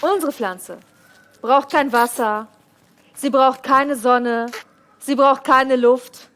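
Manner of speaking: slow, punchy sales pitch; infomercial. Acted. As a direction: sell each point with weight. Teleshopping pitch, slow emphasis.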